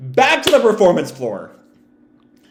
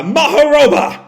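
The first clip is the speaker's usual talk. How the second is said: louder, higher battle cry; attack shout; 11 semitones higher, 7 dB louder than usual. Acted. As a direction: bellow the move name. Attack name called out.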